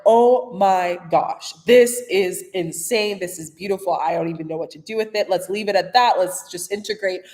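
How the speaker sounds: awestruck. Retold or imitated. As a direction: let each word land in amazement. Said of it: "more of like".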